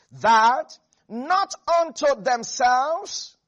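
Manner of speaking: loud, spaced-out scripture phrase; slow, emphatic reading. Real, not acted. Preacher reads verse twelve to congregation, slow, loud and emphatic. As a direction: hold back the pace and press each word.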